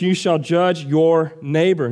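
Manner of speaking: slow reading leaning on "neighbor"; stress on NEIGHBOR. Shown as a demonstration. Preacher reading the law on judging, emphasis on "neighbor". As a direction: land deliberately on the word "neighbor". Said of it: "Notice the emphasis on neighbor".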